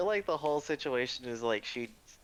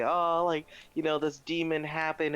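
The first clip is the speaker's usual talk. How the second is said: imitated scream; 6 semitones higher than usual. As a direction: act out a churchgoer crying out. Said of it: "they scream".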